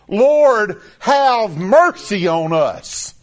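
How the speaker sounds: a beggar crying out to Jesus, mock pleading; cried out plea. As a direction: cry out Lord and draw out have mercy on us. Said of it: "almost cried out".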